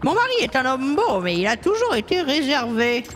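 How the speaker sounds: lightly voiced worried old woman; a hint of a fretful grandmother; old lady client. Old client tells story. (voix de vieille dame inquiète, légère)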